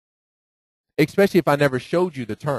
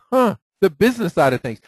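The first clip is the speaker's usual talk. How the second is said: mock-surprised repeat, a little higher and louder; sarcastic echo; 5 semitones higher, 3 dB louder than usual. Echoing the agent's excuse with sarcastic disbelief. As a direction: throw her words back at her with a scoff. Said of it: "I'm like".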